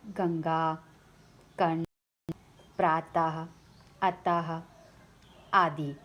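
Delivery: teacher spelling out गंगा, कर्ण, प्रातः, अतः so students hear the anusvara and visarga; careful example words. Shown as a demonstration. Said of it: "इन दो वर्ण को अयोगवा कहा गया है".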